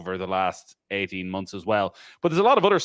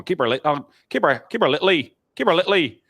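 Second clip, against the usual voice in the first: put-on raised, louder northern-accent shout; strong northern accent; 7 semitones higher, 5 dB louder than usual. Golf fan urging Lee on from the crowd, strong northern accent. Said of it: "these very strong northern accents".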